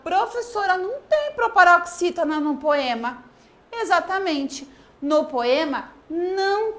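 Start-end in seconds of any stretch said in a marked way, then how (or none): 0.0-3.2 higher, lightly voiced pupil; imitated child. Imagined pupil tells the teacher there is none, higher child voice. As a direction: pipe up like a child answering the teacher. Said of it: "eu tô escutando uma criança falar".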